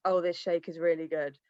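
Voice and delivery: a limp, quiet product pitch; flat bored pitch. Shown as a demonstration. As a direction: say it like you don't care. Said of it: "You've got to be like".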